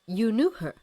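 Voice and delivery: taken aback, voice lifted; puzzled. A narrator's reading. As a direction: ask in startled puzzlement. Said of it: "Elphaba looked puzzled".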